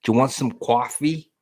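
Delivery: mock Boston accent. Shown as a demonstration. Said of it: "you can do the Boston one".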